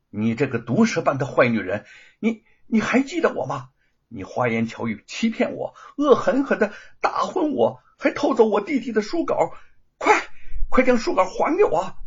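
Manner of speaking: loud, high, furious rebuke; furious scolding. Acted. Wu Chengjia confronts the thief, furious shout. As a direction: shout down the thief who tricked her. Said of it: "气愤之极地怒斥".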